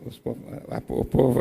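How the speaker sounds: halting false starts on the opening words; stammering. Real, not acted. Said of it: "ter gaguejado um pouquinho".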